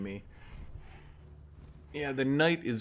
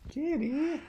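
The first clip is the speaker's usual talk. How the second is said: high sing-song call to a kitty; high cat call. Real, not acted. Streamer calling the game cat, high and coaxing.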